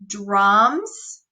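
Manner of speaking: put-on slow, word-by-word reading for children; slow modeled reading; slow read-aloud. Shown as a demonstration. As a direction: read it out slowly, one word at a time. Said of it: "Let's read that sentence".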